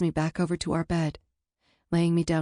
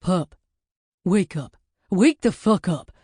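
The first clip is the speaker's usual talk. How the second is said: louder and louder, shaking her awake; urgent yell; 6 dB louder than usual. Acted. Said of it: "I hear a scream".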